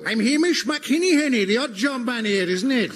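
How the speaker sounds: bad Welsh accent meant to be Scottish; a Welsh lilt that should have been Scottish. Odd job man Hamish in a Welsh accent. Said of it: "That's a Welsh accent".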